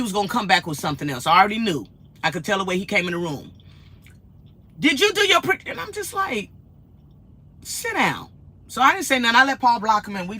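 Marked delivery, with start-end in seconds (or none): 4.8-5.6 mock troll question. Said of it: "repeating the troll's question".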